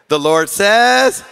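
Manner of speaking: slow and emphatic; slow emphatic repeat. Shown as a demonstration. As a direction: draw it out slowly. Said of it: "Say with".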